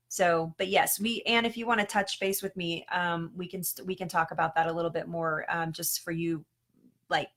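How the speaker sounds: ordinary talk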